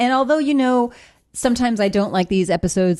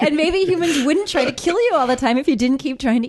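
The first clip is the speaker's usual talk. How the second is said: inspirational speaker; 5 semitones higher than usual. Acted. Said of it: "inspirational zombie speaker".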